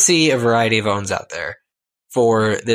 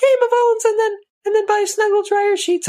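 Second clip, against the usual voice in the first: very high cutesy bear voice; Snuggle. Acted. Mascot bear selling dryer sheets to listeners, in a tiny high voice. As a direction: plug it like a squeaky advert mascot. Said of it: "Always talks like this".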